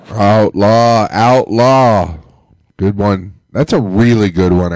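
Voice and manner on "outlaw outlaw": hype shout. Real, not acted. Host hypes the caller.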